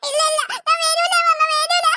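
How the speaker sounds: shouting refusal. Acted. Child refusing, shouting and laughing.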